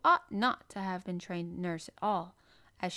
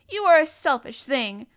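loud, high accusation; indignant cry; 7 semitones higher, 14 dB louder than usual. A narrator's reading. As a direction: cry it out at her. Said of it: "cried Colin".

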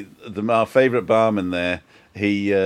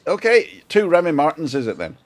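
Northern Irish barman; 6 semitones higher than usual. Retold or imitated. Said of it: "He says".

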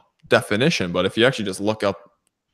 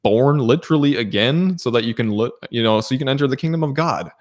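higher, quicker retold rebuke; mild mock scolding; 5 semitones higher, faster than usual. Yeshua scolding a teacher who does not understand, mild retold scolding. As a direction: lightly imitate a teacher being scolded, pitched up and hurried. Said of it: "Yeshua was scolding him".

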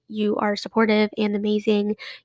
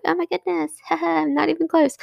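higher, laughing self-deprecating aside; rueful laugh; 6 semitones higher than usual. Retold or imitated. Comparing her download numbers to another podcaster's, laughing. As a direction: laugh it off, a little deflated. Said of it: "and I'm like".

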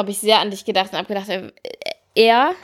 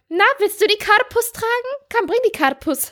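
Stimme für das Kind; 11 semitones higher than usual. Retold or imitated. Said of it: "hab gesagt".

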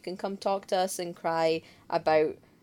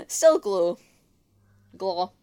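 laughing; 4 dB louder, slower than usual. Real, not acted. Laughing at a show pun.

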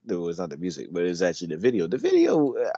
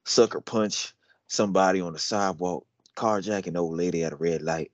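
put-on lower-pitched country accent recital; 4 semitones lower than usual. Rereading lyrics to a friend who wanted regular, insistent country accent. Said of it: "We'll do it in a country accent".

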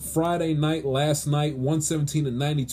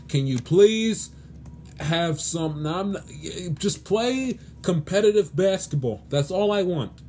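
pleading; 2 semitones higher than usual. Real, not acted. Sports host begs NBA teams for competitive basketball, pleading. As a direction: beg them, with emphatic pauses. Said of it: "I am begging you".

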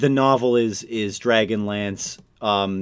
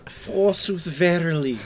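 mock biblical prophet; 5 semitones higher, slower than usual. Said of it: "I've already said that one".

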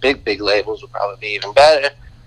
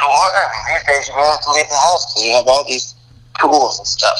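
on speakerphone. Real, not acted. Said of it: "We're getting some in and out".

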